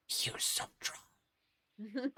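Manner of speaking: slow, sneaky stage whisper; conspiratorial whisper. Acted. Wart secretly urging the adventurers to use drugs, slow whisper. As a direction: whisper it, drawn out very slowly. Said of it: "Wart would whisper to you all".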